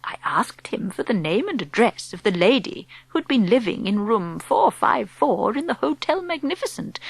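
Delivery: put-on calm whispery old woman explaining; old grandmother. Grandmother speaks.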